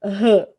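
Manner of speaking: final R as a breathy "huh"; aspirated R sound, not its name; strong R sound. Shown as a demonstration. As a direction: say R as an H-like puff. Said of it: "pra ter som de R".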